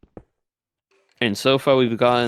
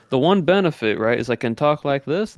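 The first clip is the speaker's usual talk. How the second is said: Southern accent; 4 semitones higher than usual. Shown as a demonstration. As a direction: stretch the words like a Southern cowboy. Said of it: "still in that Southern accent".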